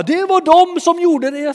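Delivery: very high, loud exclamation; pointing out excitedly. Retold or imitated. Onlooker tells the crowd who healed him, high and loud. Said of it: "och så bara".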